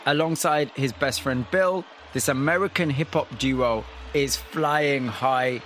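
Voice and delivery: measured, scripted presenter read over music; polished broadcast storytelling voice; radio documentary narration. Acted. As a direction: set up the story like a radio feature host.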